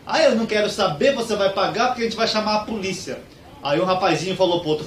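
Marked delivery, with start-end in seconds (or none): 0.1-3.2 high-pitched theatrical outrage; camp scandalized outburst. Acted. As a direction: make a hammed-up scene as an effeminate young man. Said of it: "já saíram fazendo escândalo".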